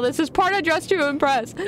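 normal talking voice

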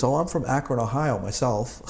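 lightly put-on Australian accent, slowing at the end; imitated Australian accent. Cabbie answering the Yanks where he's from, imitated Australian accent. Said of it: "In perfect, perfect, uh, Australian accent".

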